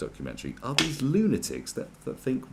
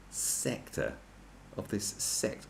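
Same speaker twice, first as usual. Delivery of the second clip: hushed; 2 semitones lower, 9 dB quieter, slower than usual. Acted. Conspiratorial hush.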